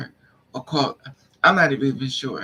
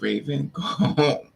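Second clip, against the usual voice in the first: inner voice; slower than usual. Retold or imitated. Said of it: "And it said".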